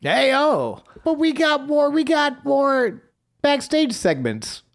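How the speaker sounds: high, excited hype call; hyped announcer. Real, not acted. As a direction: shout it like an announcer.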